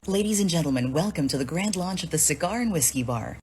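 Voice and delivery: booming event announcer read; announcer sample. Shown as a demonstration. Voiceover artist demoing for a doubting stranger, announcer voice. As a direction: show off the pro announcer voice. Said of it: "so I did a short sample".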